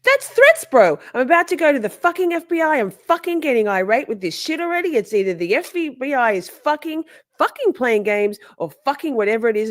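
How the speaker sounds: very high, loud mock outburst fading; mocking Katie. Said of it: "And she goes".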